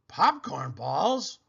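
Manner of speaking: excited shout. Acted. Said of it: "shouted Aunt Mira".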